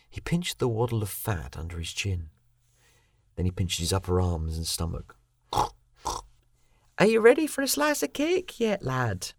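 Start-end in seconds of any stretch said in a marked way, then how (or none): 5.5-9.3 calling up the stairs, high and louder, slow; yelling across the room. A narrator's reading. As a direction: call out high and slow to someone upstairs. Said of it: "Moira's voice called up the stairs".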